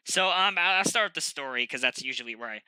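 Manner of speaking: talking through a blocked nose; congested, stuffed-up nose; stuffy nose. Real, not acted. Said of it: "I have a bit of a snuffy nose".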